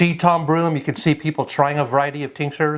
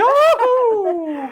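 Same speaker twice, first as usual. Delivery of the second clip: excited. Real, not acted. Cheering after hot pepper.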